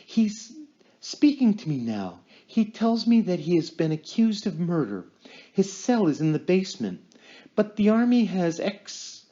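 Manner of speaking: trance medium voice. Acted. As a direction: speak as if channeling a spirit. Lorraine in trance voicing spirit.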